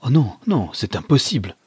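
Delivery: shocked protest; disbelief. Acted. Son learns of wife's betrayal.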